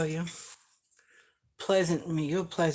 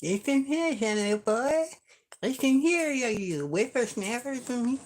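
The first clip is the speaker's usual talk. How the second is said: put-on cranky old-timer, higher and louder; old prospector; 5 semitones higher, 7 dB louder, slower than usual. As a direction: scold like a grumpy old codger. Playful grumpy old-timer address.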